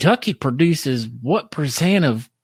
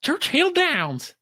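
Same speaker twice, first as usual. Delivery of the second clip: drawn-out answer; 14 semitones higher, 3 dB quieter, much slower than usual. Pretend.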